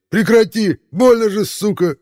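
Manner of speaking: high, loud shriek of pain. Acted. Rollo wounded, shrieking at the hidden sniper. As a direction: shriek at the shooter.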